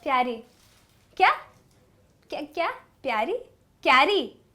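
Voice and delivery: mock confused questioning; acting out puzzled people. Shown as a demonstration. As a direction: play the baffled crew mishearing a name. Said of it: "So I'll give you some demo".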